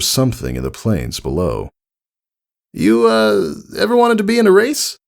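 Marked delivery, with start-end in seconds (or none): 2.7-5.0 high tomboy pony, fast after an uh; nervously popping the question; hesitant Rainbow Dash. A narrator's reading.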